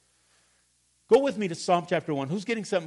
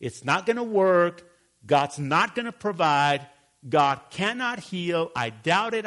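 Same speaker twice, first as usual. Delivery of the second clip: doubting voice; 4 dB louder than usual. Retold or imitated. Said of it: "The negative".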